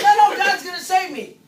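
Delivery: very loud, high mock refusal, escalated. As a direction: dig in harder on the second no. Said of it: "And the next boat comes in and says".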